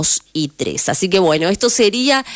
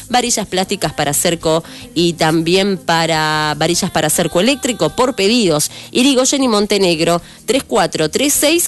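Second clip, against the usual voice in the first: steady, upbeat announcer reading local ads; radio ad read. Acted. Local radio host reading shop ads in an announcer voice. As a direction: sell the shops to listeners like a radio spot.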